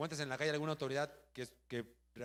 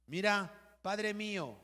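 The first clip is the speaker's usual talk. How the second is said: high, raised call to a distant king; acted calling out; 6 semitones higher, 5 dB louder, much slower than usual. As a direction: call out to him from afar, voice lifted. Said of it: "Y luego le grita".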